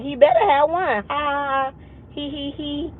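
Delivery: a joke that dissolves into soft giggles; teasing line, then breathy little laughs; laughing it off. Retold or imitated. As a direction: giggle quietly through the end. Joking with her doctor, laughing.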